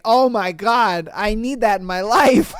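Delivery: lightly voiced delighted fan; imitating enthusiastic girls. Host quoting girls who loved the show, mock gushing. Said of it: "girls that were just like".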